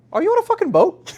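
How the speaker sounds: high, loud incredulous client impression; mock incredulity. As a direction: blurt it out like a client catching you out. Client catches him out, retold.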